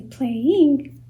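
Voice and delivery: PLAYING as two distinct pulses; two impulses. Shown as a demonstration. Teacher showing syllables to a class, PLAYING in two pulses. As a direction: sound PLAYING in two beats, play and ing. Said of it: "two impulses".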